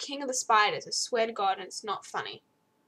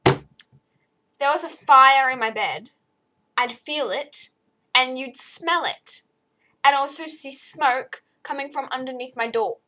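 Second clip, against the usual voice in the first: loud, exasperated explaining; indignant retort; 2 semitones higher, 8 dB louder than usual. Retold or imitated. Daughter scolding dad about the fire, loud indignant explaining. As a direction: set dad straight, indignant. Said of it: "And I'm like".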